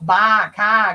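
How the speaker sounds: put-on drawn-out Maine accent with dropped R; East Coast accent. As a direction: imitate an East Coast accent, stretching the vowels. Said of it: "that goddamn East Coast".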